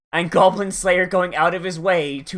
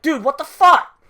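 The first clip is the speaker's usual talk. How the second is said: loud, much higher mock outrage; outraged player; 11 semitones higher, 8 dB louder than usual. The mage's player stabbed by a teammate, loud high mock outrage. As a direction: yelp in disbelief at a betrayal.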